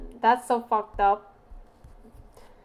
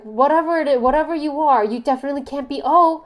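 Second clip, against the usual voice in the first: loud, emphatic imitation of the friend; mock friend voice; 3 semitones higher, 8 dB louder than usual. Imitating the friend who judged her type, loud and insistent. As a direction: ham up her know-it-all verdict. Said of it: "she was like".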